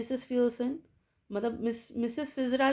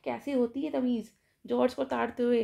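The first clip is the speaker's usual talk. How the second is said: mild stern retort; 2 semitones higher than usual. Retold or imitated. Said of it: "कहते".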